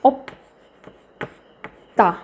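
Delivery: drawn out very slowly for learners; ओप्ता spoken slowly and deliberately, syllable by syllable; slow syllable-by-syllable demo. Shown as a demonstration. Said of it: "आप बोल सकते हो".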